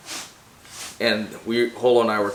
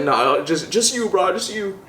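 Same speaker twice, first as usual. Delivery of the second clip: high mock refusal; 8 semitones higher than usual. Quoting Holo refusing.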